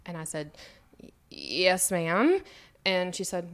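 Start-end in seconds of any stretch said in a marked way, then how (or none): 1.0-2.4 halting reply with a rising end; hesitant, unconvincing yes. Retold or imitated. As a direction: try to sound happy and falter. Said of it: "why don't you sound like it".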